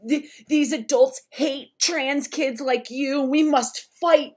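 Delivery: emphatic, hammed-up warning of doom; doom-and-gloom mom. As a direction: imitate a mother urgently rallying her child. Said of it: "doom and gloom about".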